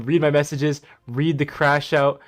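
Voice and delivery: mock the rival reading his demands, rising to a yell; mocking imitation. Streamer mimics rival begging for content, mock whine building loud. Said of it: "He's saying read".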